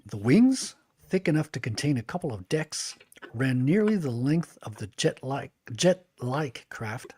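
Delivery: steady storybook reading voice; narrator voice. Shown as a demonstration. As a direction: read it like an audiobook narrator. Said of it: "my narrator voice".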